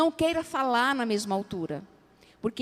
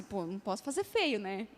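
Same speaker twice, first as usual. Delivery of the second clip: quiet self-talk; 4 semitones lower, 10 dB quieter than usual. Retold or imitated.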